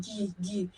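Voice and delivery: very soft "gi, gi" with lips pushed forward; two hushed, even "gi" sounds placed forward; forward syllable. Shown as a demonstration. Oboist repeating the sound for students, forward "gi". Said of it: "my lips are coming forward".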